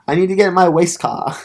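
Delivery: "waist car" with a w instead of the r of race; "waist" for race, w in place of r; says w for r. Shown as a demonstration. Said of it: "sometimes I can't say my R's".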